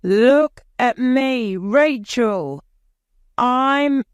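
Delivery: put-on high, loud, playful boy calling to his friend; excited child calling out; gleeful child. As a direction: show off to Rachel, delighted. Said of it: "Bruce climbs onto the well and laughs".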